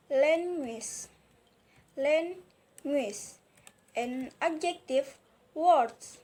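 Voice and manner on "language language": "language" stressed on the first syllable, drawn out; stress demonstration. Shown as a demonstration. Teacher showing learners where stress falls in a noun, "language" stressed on its first syllable. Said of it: "and stress".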